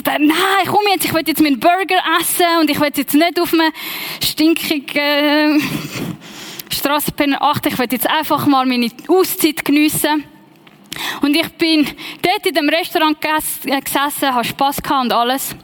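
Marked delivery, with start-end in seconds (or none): 0.0-10.2 unwilliger innerer Protest. Retold or imitated. Retold inner protest to herself.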